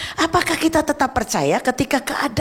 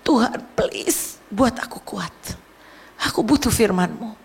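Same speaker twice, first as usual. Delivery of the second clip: tearful prayer; 2 semitones lower than usual. Retold or imitated. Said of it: "Sambil saya nangis".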